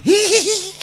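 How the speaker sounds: squealed "hee hee hee"; imitated high-pitched titter; mock giggle from being tickled; high ticklish giggle.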